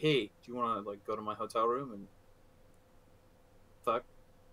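brazen, bold come-on delivery. Imagining a celebrity coming up at a bar, imitating Ryan Reynolds propositioning. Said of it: "Does he say it like that?".

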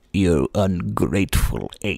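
low, close, dropped character voice. Imitating John du Pont leaning in close: John du Pont impression. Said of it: "he's just like".

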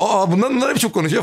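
high, surprised exclamation blurted out.

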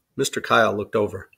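ordinary delivery

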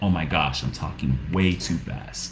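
low, quiet, dismayed voice.

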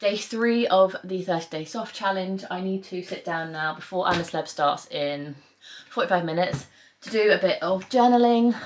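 puffed out, out-of-breath talking, catching breath. Giving a day-three update on a personal challenge, out of breath. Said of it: "Why am I out of breath?".

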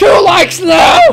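screaming, shouting. Redoing a line after being told to scream: screaming. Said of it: "you have to scream every second".

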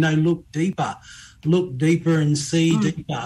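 ordinary talk, nothing marked

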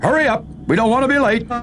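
big, very high roaring shout. Reading a story, the tug George calls to Theodore and Hank, roaring. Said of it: "roared George".

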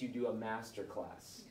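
plain

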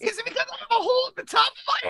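very high, loud, put-on character voice. Asking the others a question, in a put-on character voice. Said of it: "overwhelmed by your character voice".

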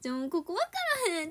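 Kansai-ben speech. Quoting a teacher, speaker notes they are speaking Kansai dialect: Kansai dialect. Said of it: "今関西弁なんですけど".

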